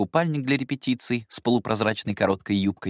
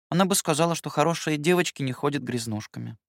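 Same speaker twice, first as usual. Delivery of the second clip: guilty answer; 8 semitones higher than usual. Acted. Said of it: "виновато ответила Габи".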